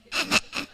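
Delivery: loud, voiceless burst of giggles; imitated laughing fit. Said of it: "but also just laughing".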